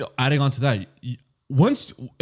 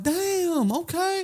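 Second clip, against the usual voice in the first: higher, softer deflated okay; mock resigned; 4 dB quieter, much slower than usual. Drunk customer told to sober up, resigned. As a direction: give in, a little deflated. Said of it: "I'm like".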